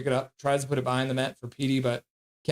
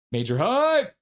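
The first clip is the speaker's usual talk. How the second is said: higher, rising exclamation; hype cheer; 7 semitones higher, 3 dB louder, slower than usual. Retold or imitated. Host reading another hype message, cheering. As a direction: lift "hype" into a high cheer.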